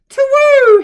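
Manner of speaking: high, loud "to woo"; owl hoot. A narrator's reading. Albert hooting from far away, loud hoot. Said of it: "he tooted".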